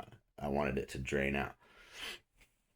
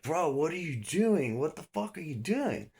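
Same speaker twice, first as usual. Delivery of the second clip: retold incredulous protest; 12 semitones higher, 3 dB louder than usual. Suspect protesting to the cop, high retold incredulity. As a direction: plead in exaggerated disbelief, voice pitched up.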